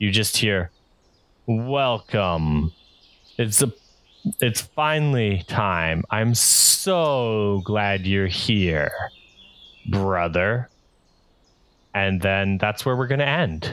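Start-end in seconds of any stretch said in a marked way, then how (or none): 1.5-10.7 very slow, drawn-out, grand proclaiming delivery. A narrator voicing the one heard at the end of the path, booming voice. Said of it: "in a booming voice".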